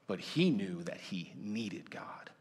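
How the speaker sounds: slow whispered confession; hushed whisper. Real, not acted. Preacher whispering to the congregation that Joseph needed God. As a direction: drop to a whisper to land the point.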